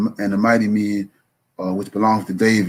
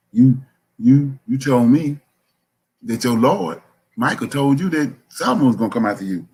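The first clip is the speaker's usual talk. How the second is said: higher-pitched acted confrontation; charging him; 4 semitones higher than usual. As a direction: press him as if calling in his promise. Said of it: "Bathsheba charging him right here".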